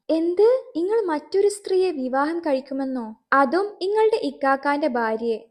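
stunned, indignant wife; cracked outraged voice. Acted. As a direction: blurt it out in disbelief. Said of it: "പിളർന്ന സ്വരത്തിൽ ഫാത്തിമയുടെ പ്രതികരണം".

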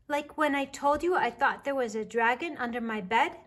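put-on high, small child's voice; little bear voice. A narrator's reading. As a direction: voice a curious little cub.

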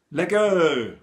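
high, loud delighted cry; calling out. A narrator's reading. Two kids cheering at the teacher's menu, high and loud. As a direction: cheer it out like a happy kid. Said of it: "Alleen Rolf en Fatima roepen".

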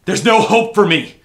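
high, loud wail of despair; anguished scream. Acted. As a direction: cry out in hopeless anguish. Urging visitor to flee.

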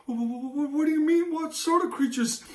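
high, stammering nervous mother. Acted. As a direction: stall the dragon, scared.

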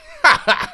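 high cackling king's laugh; gloating laugh. Acted. King mocks the jailed ambassador, high gleeful laugh. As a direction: laugh in triumph at the prisoner.

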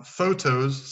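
photos, each syllable drawn out slowly; photos spoken slowly. Shown as a demonstration. Teacher models the word photos for students, slow and clear. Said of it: "Petite parenthèse dans le cours".

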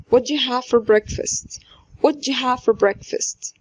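"what do you" blended into "whatcha"; slow demo, do you melted into ja; reduced do you. Shown as a demonstration. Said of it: "بتبقى ج". ("what do you" تتنطق "واتشا" ببطء)

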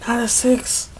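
breathless whispered plea at the screen; hushed, willing the dice; tense whisper. Real, not acted. Gamer whispering at the screen, tense. Praying the roll misses six.

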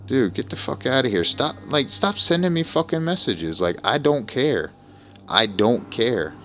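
a streamer yelling at players who keep messaging him; angry rant. Real, not acted. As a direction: snap at the people spamming messages.

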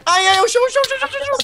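high, frantic repeating; panicking gamer. Real, not acted. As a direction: panic as the floor breaks. Floor breaking panic.

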